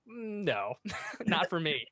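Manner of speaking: reluctant Jeremiah. Retold or imitated. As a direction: brush off the calling like a shy youngster. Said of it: "Jeremiah's like".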